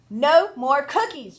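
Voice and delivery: loud, slow shout. Acted. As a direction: put your foot down. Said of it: "shouted Stuart".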